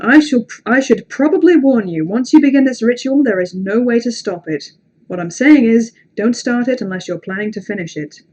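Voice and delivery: projected read-aloud, easing down at the end; storyteller delivering a warning, firm then settling; creepy story reading. A narrator's reading. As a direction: read a ritual warning to an audience. Reads ritual warning aloud.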